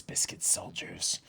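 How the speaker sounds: breathless repeat; whispered echo. Acted. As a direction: mutter it under your breath.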